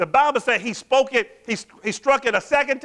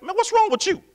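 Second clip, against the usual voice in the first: talking bad; 2 semitones higher than usual. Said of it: "he talked like".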